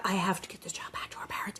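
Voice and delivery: whispered to himself, voiceless and urgent; a voiceless aside to himself. Retold or imitated. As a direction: hush it like a secret resolve. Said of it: "he's like".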